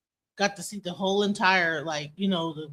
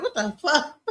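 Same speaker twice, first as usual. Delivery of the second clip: retold bewilderment through laughter; higher-pitched, laughing incredulity; laughing disbelief; 4 semitones higher than usual. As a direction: laugh while recalling your baffled reaction. Laughs retelling her bewildered reaction.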